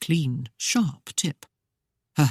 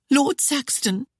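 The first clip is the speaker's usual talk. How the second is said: higher voice, stunned; Claudia voiced; 9 semitones higher than usual. A narrator's reading. Claudia realising who the masked man is, higher stunned voice. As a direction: say the name in disbelief.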